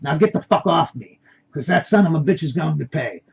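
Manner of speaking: angry comeback, loudest at the start; blaring back. Acted. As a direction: argue back loudly and indignantly. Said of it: "The Spanish accent man blaring back".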